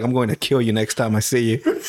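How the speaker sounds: a hint of a vengeful fighter; mock threat. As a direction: growl the vow like a grudging villain. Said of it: "I was like".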